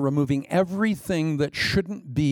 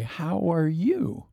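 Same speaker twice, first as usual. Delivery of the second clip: gentle question; 4 semitones higher, much slower than usual. Acted. Preacher asking his congregation, gently. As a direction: ask it tenderly. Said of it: "I might ask you today".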